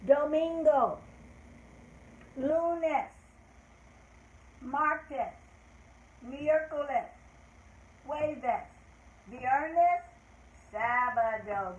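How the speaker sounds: Spanish days said clearly for the class to echo; model for repeating. Shown as a demonstration. Teacher has children repeat Spanish weekdays after her. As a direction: say each Spanish day for them to copy. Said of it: "repeat it after me".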